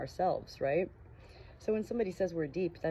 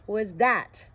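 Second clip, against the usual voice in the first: higher, louder breathless shock; choked question; 5 semitones higher, 8 dB louder than usual. Acted. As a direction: force it out, stunned. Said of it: "he managed to choke out".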